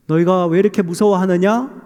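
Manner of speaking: imitated reproachful question; mild reproach. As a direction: gently chide frightened followers in formal words. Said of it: "책망하는 듯한 그런 말씀으로 느껴지지만".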